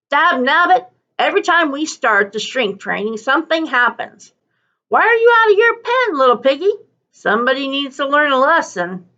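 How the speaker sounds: lightly voiced exasperated cart man; a touch of a cranky driver, rising on the piggy question; annoyed driver scolding a loose pig; grumbling dog driver.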